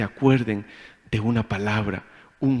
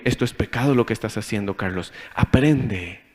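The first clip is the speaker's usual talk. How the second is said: self-rebuke; 4 semitones lower than usual. Retold or imitated. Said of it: "y me digo".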